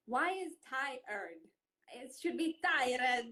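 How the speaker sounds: tired said slowly and high, puzzled; drawn-out tired, as if questioning the spelling; mock puzzled pronunciation. Shown as a demonstration. Italian puzzling over English spelling, slow and high. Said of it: "This is why you say tired".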